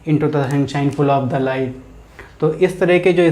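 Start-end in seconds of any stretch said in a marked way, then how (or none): 0.1-1.7 slow, rhythmic poem reading; lilting verse read to show rhythm; poem recital. Shown as a demonstration. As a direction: recite it with a measured beat. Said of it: "तो इस तरह के जो sentence हैं".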